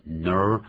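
"ner-" with the tongue curled back on the R. Shown as a demonstration. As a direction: hold an r-coloured vowel in "ner-". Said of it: "所以我们要卷舌".

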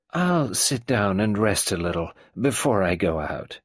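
lightly voiced old matriarch; a hint of the imperious old woman; old tyrant mother. Old Mrs Boynton settling in, lightly voiced.

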